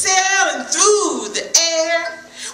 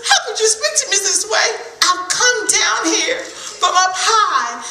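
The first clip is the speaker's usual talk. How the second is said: higher mock-hurt whine, laughing; insulted buzzard; 4 semitones higher than usual. Buzzard feigning hurt at Squirrel's words, mock-offended. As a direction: play up the wounded pride. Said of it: "Buzzard was insulted".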